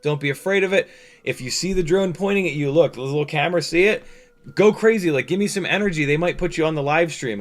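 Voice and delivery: mild mock yell to a crowd; retold screaming. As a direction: imitate calling out to rally spectators. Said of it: "just, like, screaming".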